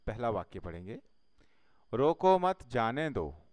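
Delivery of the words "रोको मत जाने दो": "रोको मत जाने दो" run together with no pause; duraksız okuma. Shown as a demonstration. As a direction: read "रोको मत जाने दो" as one unbroken phrase, no comma. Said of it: "इसमें कोई भी अर्थ स्पष्ट नहीं".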